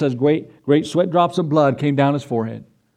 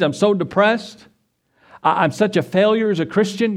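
Peter giving up; 4 semitones higher than usual. Retold or imitated. Peter's despair voiced.

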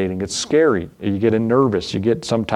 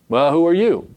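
mock the question, pitched up; lightly scornful, higher-pitched retort; 5 semitones higher than usual. Pharisees challenge Jesus to mock him, mocking. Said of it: "Began to mock him".

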